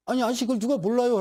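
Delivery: high, exasperated protest; acted comic outrage; indignant. Acted indignation at obvious advice.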